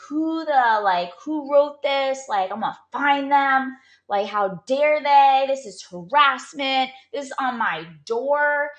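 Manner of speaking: outraged at the note; indignant outrage. Retold or imitated. Angry at harassing note.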